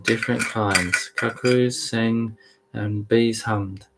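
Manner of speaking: deliberate read-aloud with spaced phrases; measured storybook recital; scripture narration. A narrator's reading. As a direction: read the tale out carefully, pausing between images. Co-host reads scripture aloud.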